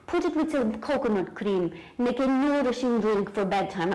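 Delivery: lightly imitated Lithuanian accent; a touch of mock Lithuanian while instructing; Vilma. Naturopath prescribing a bedtime drink, lightly imitated Lithuanian accent. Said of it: "because that's the way she talks".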